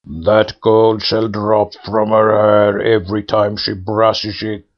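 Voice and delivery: bestow the blessing like a spirit; pool head voice. A narrator's reading. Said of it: "said the second head".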